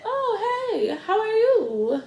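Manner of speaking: high, drawn-out Guyanese greeting; light mock Guyanese accent. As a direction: imitate a mother's Guyanese lilt, pitched high. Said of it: "With her little accent, her Guyanese accent".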